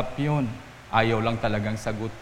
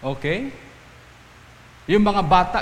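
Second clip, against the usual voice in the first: ordinary talk, nothing marked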